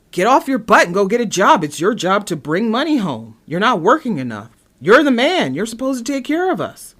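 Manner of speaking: loud, high scolding; nagging wife. Acted. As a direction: berate a lazy husband, punching the words. Acting wife berating her husband.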